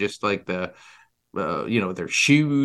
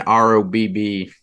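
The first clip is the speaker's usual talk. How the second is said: spelled out; 3 semitones lower than usual. Acted. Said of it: "spelling it out".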